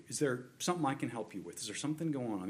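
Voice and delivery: soft, quick, caring check-in; loving concern. Acted. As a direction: ask gently, like a concerned friend. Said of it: "like this in a loving spirit".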